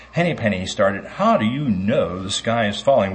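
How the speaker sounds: lively storybook reading to the congregation; reading to children. A narrator's reading. Pastor reads Chicken Little to children, storybook style. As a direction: read the fairy tale to the kids with animation.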